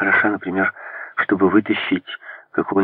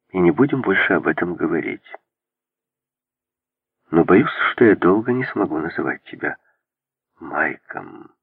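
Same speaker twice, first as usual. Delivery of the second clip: calm, weighty voice. A narrator's reading. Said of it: "очень значительным и очень спокойным голосом".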